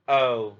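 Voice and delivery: "O" held long, gliding toward a rounded close; teacher modelling the long O diphthong; long O sound. Shown as a demonstration. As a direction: stretch the "O" so the glide is heard. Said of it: "long O sound".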